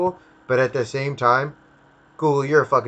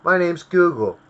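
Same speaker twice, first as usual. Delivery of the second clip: higher, louder fake-cheerful corporate voice; mocking Google as an eager helper, pitched up; mock friendly Google; 5 semitones higher, 3 dB louder than usual. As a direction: play a sugary helpful company bragging. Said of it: "They can't just be like".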